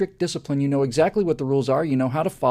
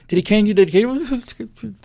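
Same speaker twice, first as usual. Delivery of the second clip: loud, high urgent whispered asking; desperate to know what happened; anxious eager question; 8 semitones higher, 8 dB louder than usual. Retold or imitated. Waiting boys urgently ask the crying boy if he was caned.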